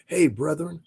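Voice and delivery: high, singsong mocking hey; mock greeting. Streamer mocking a chatter's greeting, high and singsong. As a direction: parody a chatter's fake-friendly hello. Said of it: "dude came in here and said".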